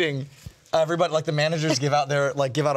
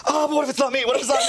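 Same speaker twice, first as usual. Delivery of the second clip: higher, mock-anxious second-guessing; nervous Meryl; 8 semitones higher, much faster than usual. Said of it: "you take one step, you go".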